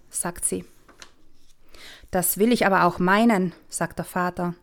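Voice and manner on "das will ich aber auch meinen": lightly grumpy father; a bit grumpy. Acted. Father still slightly cross at daughter, mild grumble. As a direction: let some grumble stay in it. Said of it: "Es klingt immer noch ein bisschen grantig".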